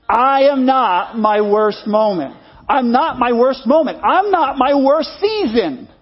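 slow, emphatic declaration; with enthusiasm. Shown as a demonstration. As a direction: say it like you truly mean it. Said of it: "say it like you actually mean it".

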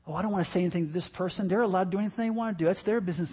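quick, softened dismissive mimicry; mock excuse-making. Preacher imitating people who stay silent about sin, mock excuse-making. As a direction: rush it softly, imitating someone avoiding confrontation.

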